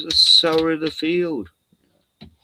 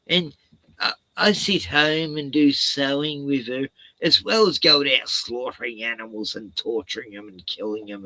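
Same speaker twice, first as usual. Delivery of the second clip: mocking Abel; 4 dB louder than usual. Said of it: "he's mocking".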